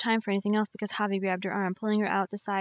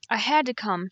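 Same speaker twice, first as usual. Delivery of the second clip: a touch of a choked voice; 2 semitones higher, 5 dB louder than usual. Acted. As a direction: push the words past a lump. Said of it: "she choked out".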